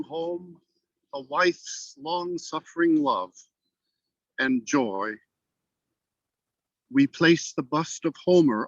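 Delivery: measured, unhurried reading of verse with pauses at line ends; poetry recitation. Acted. Guest reading his own poem to the host, measured recitation. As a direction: let each line settle before the next.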